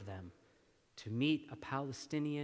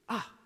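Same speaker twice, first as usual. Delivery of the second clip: ah of pain; 6 semitones higher than usual. Shown as a demonstration. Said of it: "Is it pain?".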